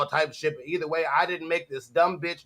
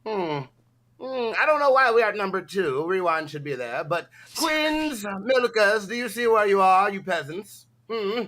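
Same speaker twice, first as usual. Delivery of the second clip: haughty villain overlord, boasting; Lord Frieza. Acted. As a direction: lord it over the peasants with smug hums. Plays Lord Frieza boasting to rivals.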